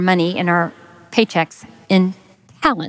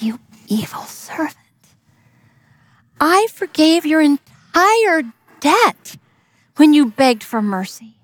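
stern king; 2 semitones higher than usual. Acted. King rebuking the servant.

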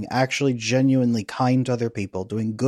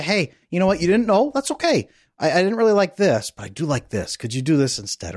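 higher, easy-going correction as the ideal partner; kind partner correcting; 5 semitones higher than usual. Retold or imitated. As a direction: correct him kindly, no blame. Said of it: "And they say".

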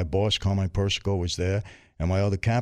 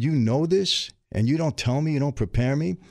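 pitched higher, indignant retold outburst; angry retort; 6 semitones higher than usual. Challenging the friend who didn't warn him, mock angry. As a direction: fire it back at an old friend. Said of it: "Now I got even more mad at him".

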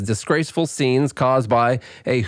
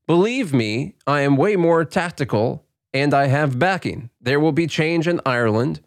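a hint of an Irish accent, pitched up a little; mock Irish accent; 3 semitones higher than usual. Reading McGregor's post to the cohost in a light mock Irish accent. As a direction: read it as a half-hearted Irish brogue with a laugh creeping in. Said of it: "The Irish accent".

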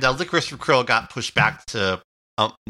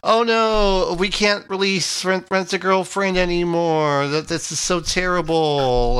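mock lament; 3 semitones higher than usual. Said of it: "you can't help but think they're going".

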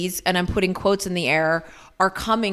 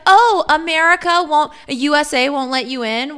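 snarky Canada; 5 semitones higher than usual. Retold or imitated. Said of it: "be like".

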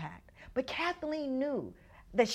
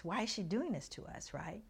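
put-on hushed, urgent child's whisper to mom; 10 dB quieter than usual. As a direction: whisper it so nobody else hears. Upset ten-year-old pleads with mom.

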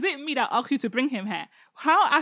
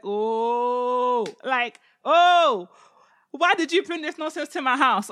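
mock outraged king; 5 dB louder, slower than usual. Achish scolds his servants, mock outraged. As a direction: scold like an offended host. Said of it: "Achish is like".

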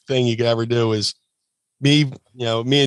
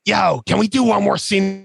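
higher eager ask for another take; eager request; 7 semitones higher than usual. Retold or imitated. Sandman asking the crew for one more scene, eager and higher. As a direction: ask it cheerfully. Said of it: "when Sandman goes".

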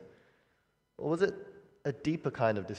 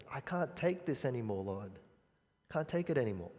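weary quiet plea; 7 dB quieter than usual. Retold or imitated. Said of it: "you might have cried this before".

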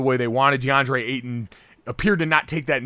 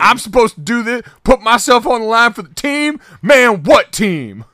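mock indignant rant; 8 semitones higher, 9 dB louder than usual. Mock team-player rant.

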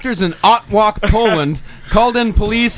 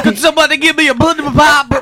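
hammed-up drunk newborn, higher and louder; drunk baby voice; 8 semitones higher, 4 dB louder than usual. Friends joking about the drunk baby, mock baby voice. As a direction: play the baby asking for a drink.

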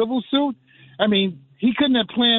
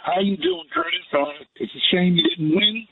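echoing tunnel; 4 semitones higher than usual. Real, not acted. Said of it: "you sound like you're in a tunnel somewhere".

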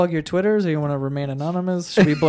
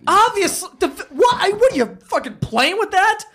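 disbelieving, pitched up; what are you even saying; high incredulous; 11 semitones higher than usual. Real, not acted. Reacts to friend's doubt.

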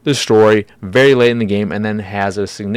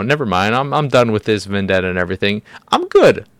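mocking Arya. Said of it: "she's just like".

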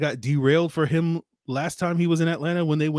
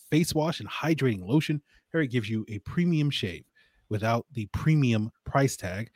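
ad read. Acted. Host reads the Harry's sponsor spot to listeners, as an ad read. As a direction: sell the razors like a host's ad spot.

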